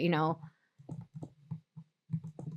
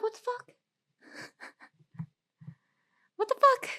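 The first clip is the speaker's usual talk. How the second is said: stunned disbelief; 5 dB quieter than usual. Retold or imitated. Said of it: "And I was like".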